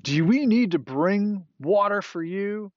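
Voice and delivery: high, loud indignant demand; exasperated Moses. Acted. Moses challenging the grumbling people at the rock, exasperated. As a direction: cry it out at the crowd, fed up.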